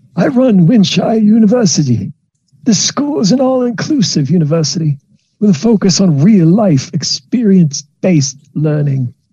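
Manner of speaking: very high-pitched lizard creature voice. Game master voices the lizardfolk dean introducing himself to the players: Dean Carter Branchbreaker voice.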